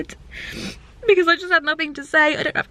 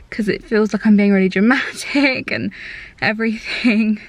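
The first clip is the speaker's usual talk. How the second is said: close to tears; 3 semitones lower than usual. Real, not acted. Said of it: "Just feel like I wanna cry".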